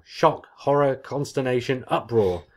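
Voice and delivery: mock outrage. Real, not acted. Mock outrage reading a list.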